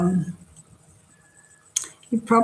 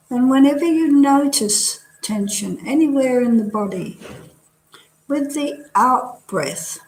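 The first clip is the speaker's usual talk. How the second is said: measured body-scan guidance with long pauses; guided meditation. Real, not acted. Teacher leading students through a relaxing body scan, guided meditation. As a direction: guide them gently from one body part to the next.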